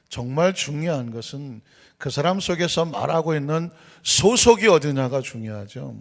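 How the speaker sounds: ordinary talk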